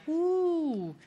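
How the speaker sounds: high whooping cheer from the crowd; mock crowd woo. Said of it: "the crowd would be like".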